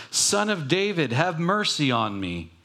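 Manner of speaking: high, urgent cry. Retold or imitated. Blind man shouting over the rebuking crowd, high cry. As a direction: cry out high for mercy again. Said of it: "but he shouted all the more".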